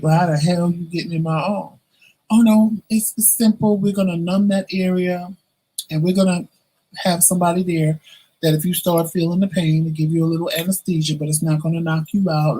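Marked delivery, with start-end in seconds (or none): 2.3-12.6 mock-reassuring medical staff; mimicking the doctors. Staff tell him the arm procedure is simple, mildly mocking. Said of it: "So they tell me".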